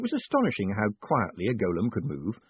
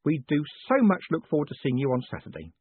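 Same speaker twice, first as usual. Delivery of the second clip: higher-pitched, gracious lady's voice; sweetly smiling; 5 semitones higher than usual. Acted. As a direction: advise him sweetly, with a smile in the voice. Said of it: "she said, smiling sweetly".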